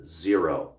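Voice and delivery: dropped low, understated; low verdict. Real, not acted. Coach giving viewers the honest odds, low and final. Verdict after long dramatic pause.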